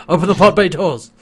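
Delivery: laughing through the line. Retold or imitated. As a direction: repeat it while cracking up. Repeats quote laughing louder.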